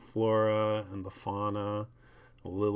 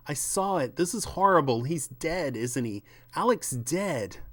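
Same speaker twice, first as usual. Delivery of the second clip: higher, frantic voice, sure she saw an insect; rising panic, insisting he's dead; panicking wife; 6 semitones higher, 3 dB louder than usual. Acted. The speaker tells Matt Alec is dead, mock panicked. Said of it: "she's, like, panicking".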